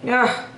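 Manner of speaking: short "ugh" of frustration; puzzled groan. Real, not acted. Reader puzzling over the angry queen, short groan. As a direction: let out a brief ugh. Puzzled reaction after pause.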